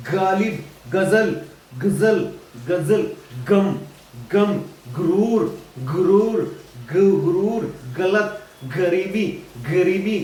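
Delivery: गालिब, गुरूर, गायब begun with throaty gh; गुस्ताखी word by word with throaty kh; throat movement. Shown as a demonstration. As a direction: drill गम and गलती from the back of the throat. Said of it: "गले में हरकत हो रही है".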